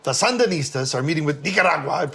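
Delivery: "Sandinistas" and "Nicaragua" in exaggerated Spanish pronunciation; mock anchor over-pronouncing "Nicaragua"; newscaster leaning into Spanish. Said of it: "lean in".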